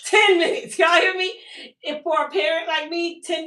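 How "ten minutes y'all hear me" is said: higher and louder, driving it home; excited emphasis. Real, not acted. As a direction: make them hear how fast it was. Boasting about the quick wash day.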